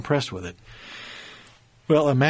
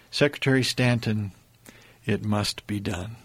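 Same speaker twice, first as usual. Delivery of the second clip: calm; 2 semitones lower than usual. Retold or imitated. Lincoln settles the argument with Stanton calmly.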